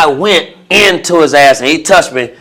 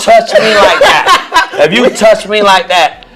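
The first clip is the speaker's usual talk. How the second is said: retold threat; 6 semitones higher than usual. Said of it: "I said".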